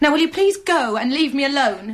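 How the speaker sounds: furious, fed-up, loud and angry. Refusing to talk and telling the other person to go, angry. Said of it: "Why are you so angry?".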